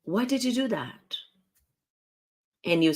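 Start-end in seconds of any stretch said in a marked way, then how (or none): 0.0-1.2 higher pointed question; challenging why. Shown as a demonstration. Coach contrasting a challenging why with a what question, accusing. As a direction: make them defend themselves. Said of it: "instead of saying".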